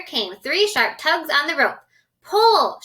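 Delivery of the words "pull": loud high shout; shouted order. Acted. Grasshopper shouting to everyone, loud and high. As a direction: bellow the command. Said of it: "shouted the old green grasshopper".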